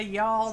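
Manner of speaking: "y'all" said as one drawn syllable, "yawl"; redneck y'all. Shown as a demonstration. Teaching the redneck word, "y'all" said "yawl". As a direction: slide "y'all" together like a local. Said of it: "And we say".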